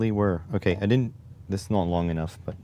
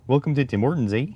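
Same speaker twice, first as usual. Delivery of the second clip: high, lilting rural Canadian accent; stereotypical Canadian accent; 5 semitones higher, 3 dB louder, faster than usual. Shown as a demonstration. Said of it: "so the Canadian accent now".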